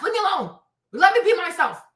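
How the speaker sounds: ordinary talk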